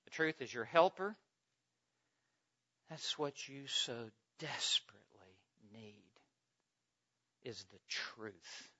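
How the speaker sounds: low, soft, measured sermon voice; hushed preaching. Real, not acted. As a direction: drop right down and let each phrase settle. Quiet, grave close of point.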